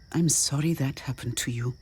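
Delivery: soft, hushed sympathy; quiet. A narrator's reading. Woman answers a man's confession of childhood trauma, quietly. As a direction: say it low and soft. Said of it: "she said quietly".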